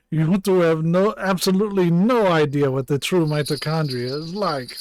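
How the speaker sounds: scornful laugh, then loud bad German accent; hammy attempt at a German accent; Clamp. Doctor scoffing at two ignorant officers, bad German accent. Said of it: "I can't do a German accent".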